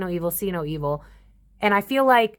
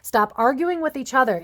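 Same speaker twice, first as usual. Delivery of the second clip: firm raised scolding, stern father voice; 5 semitones higher than usual. Real, not acted. Tarot reader scolding her audience like a stern father. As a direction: scold them like a fed-up dad. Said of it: "I feel like a stern father right now".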